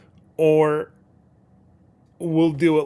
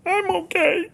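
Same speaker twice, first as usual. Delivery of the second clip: high-pitched, laughing; laughing reassurance. Real, not acted. Host laughs off a small mishap, laughing. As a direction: say it through a burst of laughter.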